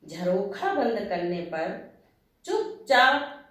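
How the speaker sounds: slow, lilting verse with pitch swoops; poem recitation. Acted. Writer opening her talk with a verse, poetic recitation. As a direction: recite it line by line, pausing after each phrase.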